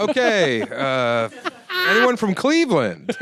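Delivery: high, loud desperate host pivot; desperate cheer. Retold or imitated. Bombing comic pleads with the audience: high loud desperate cheer. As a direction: grab for any crowd that will laugh.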